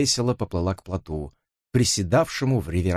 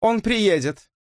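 carelessly; 12 semitones higher, slower than usual. Acted. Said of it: "беспечно бросила Элиса".

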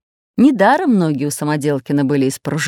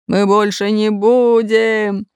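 booming bass; 3 semitones higher, slower than usual. A narrator's reading. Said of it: "пробасил Бульбуль".

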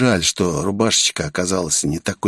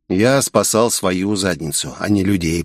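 croaking. Acted. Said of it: "прохрипел я".

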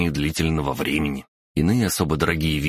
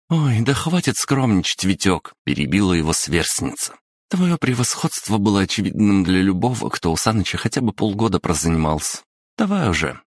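put-on higher, coaxing teenage girl; lively schoolgirl voice; 4 semitones higher than usual. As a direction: cajole a shy classmate. Yulia cuts him off. (бойкая школьница уговаривает)

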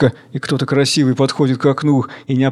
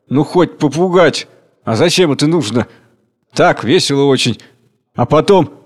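raised voices; heated meeting; 2 semitones higher than usual. Acted. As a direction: scold and argue. Chairman and speakers argue.

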